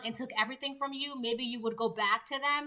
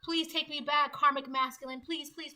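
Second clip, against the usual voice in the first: begging; 3 semitones higher than usual. Acted. You on your knees to the karmic masculine, mock begging. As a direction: plead in a high, trailing whimper. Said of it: "on your knees begging".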